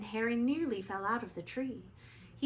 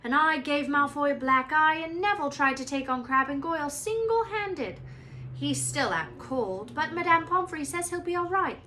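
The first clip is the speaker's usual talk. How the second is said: higher, louder overjoyed babble; excited; 6 semitones higher, 7 dB louder than usual. Acted. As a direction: gush the news in a rush. Ron excitedly reports victory.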